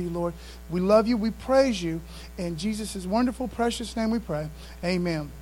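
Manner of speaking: soft, reverent opening prayer. Acted. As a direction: pray it humbly and quietly.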